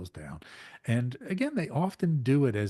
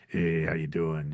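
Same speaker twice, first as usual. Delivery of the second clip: lightly voiced, slower and lower friendly hello; casual star greeting; 4 semitones lower than usual. Host imitating a famous singer greeting him on the street, a hint lower and slower. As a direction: greet them easy and unhurried. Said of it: "he turns around and says".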